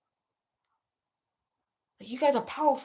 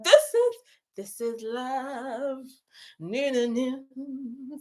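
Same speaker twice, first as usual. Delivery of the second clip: choked up; 3 semitones higher, much slower than usual. Real, not acted. Streamer choking up thanking her live viewers. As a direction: fight back real tears.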